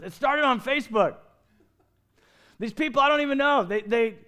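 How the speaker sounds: high, loud excited retelling; tickled storyteller. Acted. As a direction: play an amused man bursting to tell his story. Acting out the amused junkyard man.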